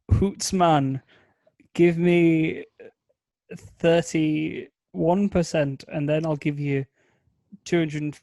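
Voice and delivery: halting, badly faked Scottish accent. Investor haggles over thirty-one percent, halting mock Scottish accent. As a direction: attempt a Scottish accent you can't do. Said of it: "That was my Scottish accent".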